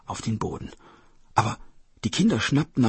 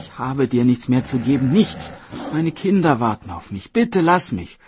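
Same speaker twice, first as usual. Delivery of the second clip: pleading mother; 3 semitones higher, 7 dB louder than usual. Acted. Mother begs the tiger to let her go, desperate pleading. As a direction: beg urgently for your life.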